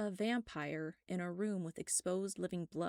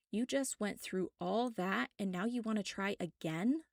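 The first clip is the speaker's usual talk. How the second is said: incredulous; 4 semitones higher, 4 dB louder than usual. Acted. Drew stares, mouth agape.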